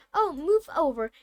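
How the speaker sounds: put-on irritated girl snapping; snarled. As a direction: shove them aside with your voice. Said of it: "Hermione snarled".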